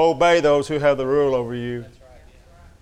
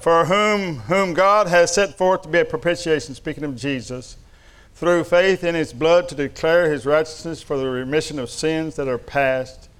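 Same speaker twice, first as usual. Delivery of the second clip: scripture reading. Acted.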